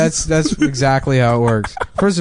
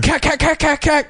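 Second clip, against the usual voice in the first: high imitated gun sounds; mock gunfire noise; 14 semitones higher than usual. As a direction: squeak out fake gunfire. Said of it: "doing, like, a Arab voice".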